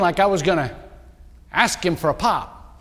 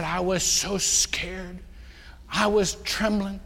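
scared; 5 dB quieter, slower than usual. Retold or imitated. Recounting terror at the altar.

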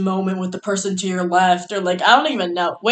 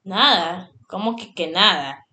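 disguised prank caller in Spanish; 3 semitones lower than usual. Pretend. Prank-calling a friend so he won't recognize her voice, playful Spanish. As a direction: pretend Spanish-speaking stranger on a prank call. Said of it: "I'm gonna start speaking Spanish".

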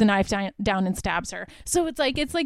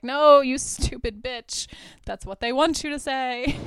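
higher-pitched mock exasperation; mock exasperated scolding; 4 semitones higher than usual. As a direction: scold a clueless film character in jest.

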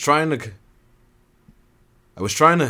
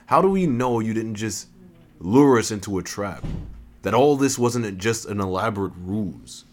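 suspicious; 2 semitones higher than usual. Acted. Retake, questions the voice.

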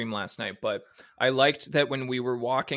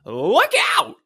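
high, loud mock warning; playful warning; 8 semitones higher, 7 dB louder than usual. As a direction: call out a playful alarm.

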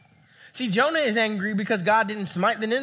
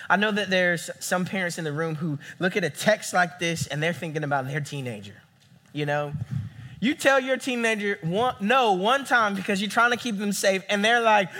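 usual speaking voice

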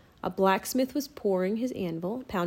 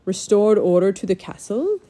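calm; 5 dB louder than usual. Acted. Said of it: "he said calmly".

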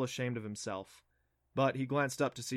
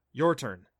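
confident; 7 dB louder than usual. Acted. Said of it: "Adam said confidently".

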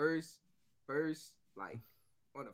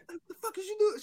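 mock yell. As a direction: imitate her outraged yelling. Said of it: "She yelled".

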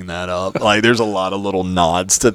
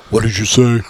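imitating Doctor Girlfriend; 3 semitones higher, 4 dB louder than usual. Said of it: "Girlfriend's voice".

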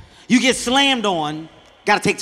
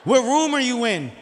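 calm clerk; 3 semitones higher, slower than usual. Retold or imitated. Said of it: "She was like".

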